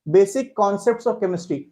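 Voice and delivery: very slow, every word drawn out for note-taking; slow dictation. Shown as a demonstration. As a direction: dictate the chapter title at writing speed. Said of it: "जल्दी से chapter की heading देखेंगे".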